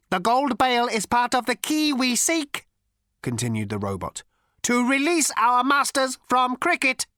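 high, cold, lifeless ancient robot voice; cold cultured robot rasp. A narrator's reading. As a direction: speak like a sleek machine ten billion years old. Robot explains its mission.

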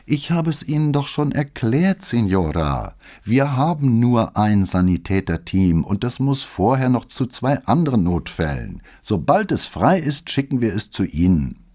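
weary patience. Acted. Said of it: "nahm einen Ton müder Geduld an".

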